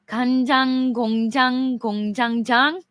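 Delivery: 간장 공장 공장장 rattled off fast; trying Korean tongue twister. Shown as a demonstration. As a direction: rush through 간장 공장 공장장 in one breath. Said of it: "I don't even know if I'm pronouncing that right".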